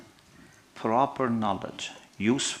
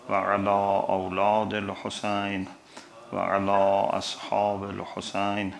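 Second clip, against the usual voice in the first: quicker, even-pitched liturgical recitation; formal Arabic invocation; 2 semitones lower, much faster than usual. Real, not acted. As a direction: recite the opening blessings in a level, flowing tone. Opens lecture with Arabic invocation.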